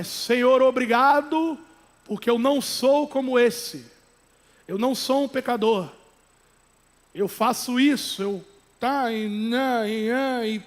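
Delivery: oração em voz alta, encenada, de fariseu exibido; fariseu gritando em oração. Acted. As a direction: imite um hipócrita bradando a oração para ser visto. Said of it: "começa a gritar". (fariseu bradando para todos ouvirem)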